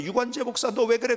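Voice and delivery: restrained, measured call to a pastor; God's voice calling. Shown as a demonstration. God calls the pastor by name, in a restrained voice. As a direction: call him by name without shouting. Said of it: "하나님의 소리는요, 이런 소리, 저를 부를 때".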